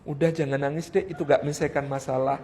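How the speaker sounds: soft, low dismissive husband; suami menenangkan. Acted. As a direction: hush the crying wife quietly. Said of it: "maka jangan ngomong". (suami pelan menyuruh berhenti menangis)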